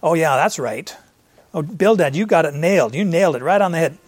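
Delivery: lightly sarcastic, as if conceding the point. Retold or imitated. Job answering Bildad with mild sarcasm. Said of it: "Is Job speaking sarcastically".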